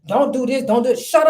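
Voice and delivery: mock telling off. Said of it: "tell a man".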